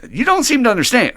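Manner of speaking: high, loud desperate begging; dangling man argues with the voice from above; frantic pleading. Acted. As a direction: plead with God, losing your grip. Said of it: "more and more frantic".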